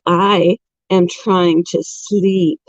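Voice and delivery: slow, lightly voiced grumpy sleeper; sleepy grumpy hamster. Vlogger voices her sleepy hamster, slow mild grumble. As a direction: drag it out, a hint of a grouchy pet. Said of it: "It's like".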